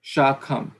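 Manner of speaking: Shakham with the A held long and stressed; teacher correcting, stretching the A in Shakham. Shown as a demonstration. Sanskrit teacher models the right vowel, long and stressed. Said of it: "no, not Shakha".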